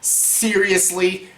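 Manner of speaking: drawn out, slow and flat-toned; slow, unimpressed disbelief; a long, tired seriously; slow deadpan. Retold or imitated. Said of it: "I'm like".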